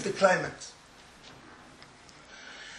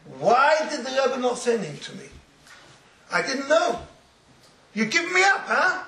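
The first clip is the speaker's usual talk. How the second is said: put-on tearful child; 6 semitones higher, 3 dB louder than usual. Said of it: "the child comes up to him in tears".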